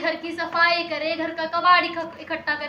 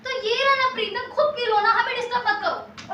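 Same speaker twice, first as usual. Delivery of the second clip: annoyed; 6 semitones higher than usual. Acted. Brushes off interrupting visitor.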